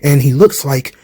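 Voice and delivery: formal and courteous, a touch low; Keith Lee impression. Keith Lee answering Andrade's offer, mild low formal voice. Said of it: "Andrade trying to recruit Keith Lee".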